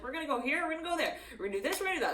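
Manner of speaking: mock eager planner; excited. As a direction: rattle off plans with eager excitement. Hyped person listing plans.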